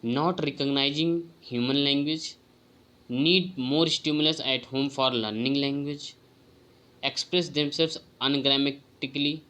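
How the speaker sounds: slow, deliberate reading of a test item; careful exam-prep read-aloud; slow question reading. Acted. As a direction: read each word out carefully to the class. Reads quiz item aloud.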